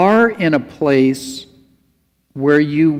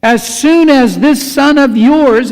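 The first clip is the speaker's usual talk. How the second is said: louder, higher scornful "this son of yours"; contemptuous sneer; 9 semitones higher, 7 dB louder than usual. Retold or imitated. Older son scorning his brother before their father, contemptuous and loud. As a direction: spit out "this son of yours" with disdain. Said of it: "and I'm sure that's how he said it".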